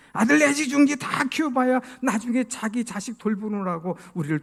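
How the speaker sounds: mildly acted indignant retort; exasperated wife's comeback, lightly played; wife hitting back. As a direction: throw the complaint right back, rising in bursts. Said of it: "탁 받아치는 얘기가".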